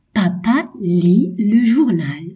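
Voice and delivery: slow, clear "Papa lit le journal"; slow reading. Shown as a demonstration. Teacher reads an exercise sentence slowly to children. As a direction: read it slowly for the class. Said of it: "Je lis les phrases".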